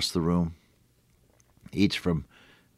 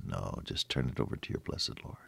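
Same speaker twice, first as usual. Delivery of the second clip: softer, near-whispered comfort; whispered reassurance; 8 semitones lower, 15 dB quieter than usual. Real, not acted. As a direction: hush it, like a secret to a friend. Gentle pastoral reassurance.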